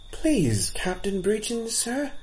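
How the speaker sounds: bold voice. A narrator's reading. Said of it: "said Leechin in a bold voice".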